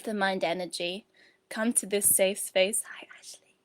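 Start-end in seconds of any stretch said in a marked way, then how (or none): 2.9-3.5 very soft, near-whispered hello; hushed greeting. Real, not acted. Host greeting a viewer joining mid-session, hushed. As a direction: slip in a hushed welcome without disturbing the session.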